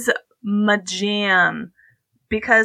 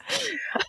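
excited giggle; 11 semitones higher, 11 dB quieter than usual. Real, not acted. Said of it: "I'm real excited".

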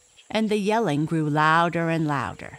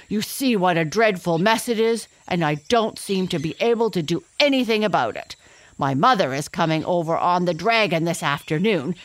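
upset lion; 2 semitones higher, 3 dB louder than usual. Acted. Upset lion explains his mane.

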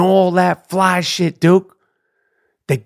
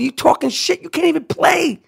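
heated jab; 10 semitones higher than usual. Real, not acted. Mocking rant at Porzingis.

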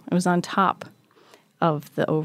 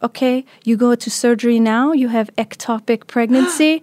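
a lightly voiced foreign doctor, a bit higher and louder; retold doctor; 4 semitones higher, 5 dB louder than usual. Doctors telling her she needs surgery, brisk and urgent. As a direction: play the brisk hospital doctor giving urgent news.

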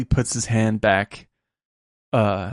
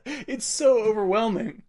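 choked up; 9 semitones higher than usual. Real, not acted. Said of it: "I can't do it without crying".

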